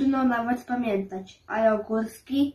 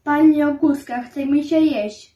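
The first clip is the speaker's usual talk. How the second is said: put-on child calling mother formally; 3 semitones higher, 7 dB louder than usual. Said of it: "zwracałem się do obojga po nazwisku".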